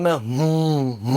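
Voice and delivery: a possessed man's drawn-out hum; imitated hum. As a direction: drone a long hum like something took over. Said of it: "हम्म करके आवाज़ निकाल रहा".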